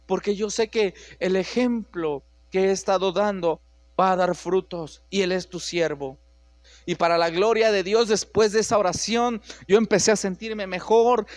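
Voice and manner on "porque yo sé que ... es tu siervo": tearful prayer. Retold or imitated. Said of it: "empecé a llorar y le dije".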